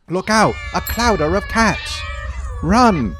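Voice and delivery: loud, hammed-up warning shout; mock alarm. Host mock-warns about a group of cats, loud and hammed up. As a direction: yell it like a panicked lookout.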